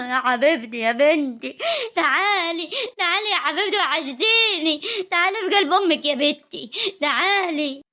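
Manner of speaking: tender, teary mother's call; tearful welcome. Acted. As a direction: call a daughter into your arms, near tears. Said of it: "انت هتبكي وهي هتبكي".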